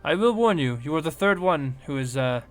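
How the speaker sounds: a hint of a worried scientist; gnome woman warning. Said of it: "she looks at you all and she goes".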